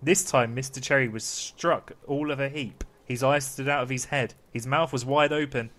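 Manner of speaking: measured bedtime-story narration; storytelling to children. Acted. Dad reading Pinocchio to the kids, storytelling voice. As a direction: read it out with deliberate pauses.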